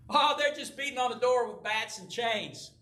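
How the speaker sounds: high, airy mock nonchalance; nonchalant. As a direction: play it off as no big deal. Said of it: "tried to be very nonchalant".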